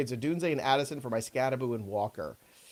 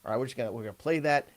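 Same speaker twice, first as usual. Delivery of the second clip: hammed-up Arkansas good-ol'-boy talk, fast; mock Southern drawl. Talk show host hamming a Southern accent at his co-host. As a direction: lay on a mock Southern accent like a country coach. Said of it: "I'm not gonna try that accent".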